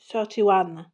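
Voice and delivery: English with a French accent; English number in a homely French accent. Real, not acted. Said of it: "avec mon super accent anglais".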